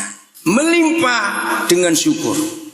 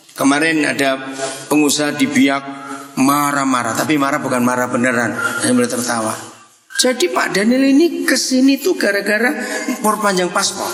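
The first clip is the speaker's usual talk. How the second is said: ordinary delivery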